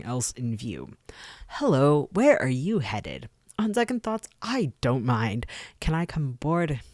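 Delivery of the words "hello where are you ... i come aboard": loud, high, bright-eyed woman calling out; perky young woman. Acted. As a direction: call out eagerly to the passing crew. Woman on the dock speaks.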